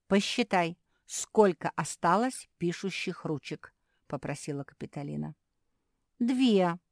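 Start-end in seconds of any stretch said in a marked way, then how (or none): 0.1-3.7 slow, slightly louder teaching voice; patient teacher. Acted. Teacher asking a puppy to count, patient. 6.2-6.8 high, loud proud answer; pleased announcement. Acted. Puppy answering the teacher, proudly and loudly. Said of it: "заявила Мафи".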